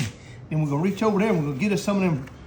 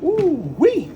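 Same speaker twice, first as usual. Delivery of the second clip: excited whoop; 9 semitones higher, 4 dB louder than usual. Real, not acted. Seasoning hot fries.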